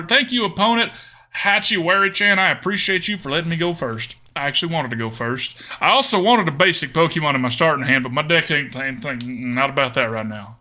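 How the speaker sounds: hammed-up Southern US accent. Streamer thanking the opponent in game, Southern accent. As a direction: talk like a folksy Southerner. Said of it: "Now, the accent's a little harder".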